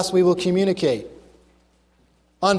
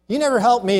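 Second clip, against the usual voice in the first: accusing tone; 5 semitones higher, faster than usual. Shown as a demonstration. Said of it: "is accusing".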